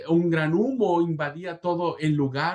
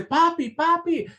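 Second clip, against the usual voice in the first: put-on very high, slow, louder cry of a small boy; little child's voice; 5 dB louder than usual. Son calls to father from the burning flat, little voice. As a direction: put on a tiny voice calling from afar. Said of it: "una vocecita que dice".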